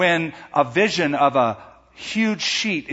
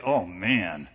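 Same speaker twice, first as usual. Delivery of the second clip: a little convicted; 5 semitones lower, 4 dB quieter than usual. Acted. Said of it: "feeling a little bit convicted".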